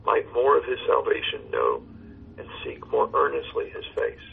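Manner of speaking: measured verse reading with pauses between lines; poem recitation. Acted. Pastor reciting a hymn poem to his caller, measured recitation. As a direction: recite devoutly, lifting line openings and letting endings fall.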